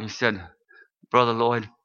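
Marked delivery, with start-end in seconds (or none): 1.1-1.7 low, subdued retold sadness; lightly voiced sorrow, pitched low; sad voice. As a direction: quote a sad man gently. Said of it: "in a real sad voice".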